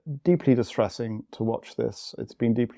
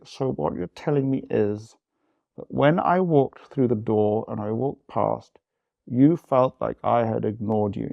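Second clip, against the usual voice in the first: retold gritted teeth. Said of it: "I say it through gritted teeth".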